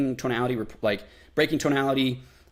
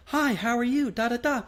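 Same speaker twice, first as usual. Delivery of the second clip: much higher, meek eager greeting; trying for rapport; 9 semitones higher than usual. Shown as a demonstration. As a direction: go up high to get them to like you. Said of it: "really high pitch".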